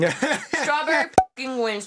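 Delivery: laughing. Real, not acted. Laughing praise of macaroon.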